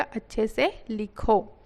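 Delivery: slow model phrase. Shown as a demonstration. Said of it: "teacher models the phrase".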